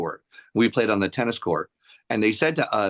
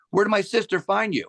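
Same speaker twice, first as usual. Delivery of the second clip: high-pitched acted question; friendly curiosity; 10 semitones higher than usual. Guest asks the singer about his sister, high and curious. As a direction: imitate a chatty, curious guest.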